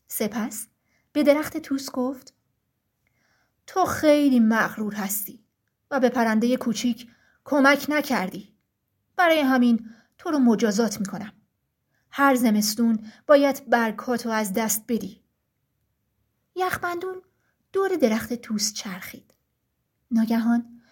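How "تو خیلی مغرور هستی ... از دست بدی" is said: stern forest ruler. Acted. Frost, ruler of the forest, addresses the trees sternly. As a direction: speak as the frost king laying down the law.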